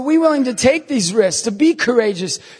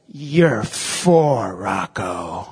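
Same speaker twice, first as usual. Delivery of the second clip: nephew's taunt; 13 semitones lower, 3 dB quieter, much slower than usual. Retold or imitated. Nephew taunting Rocco, voiced low.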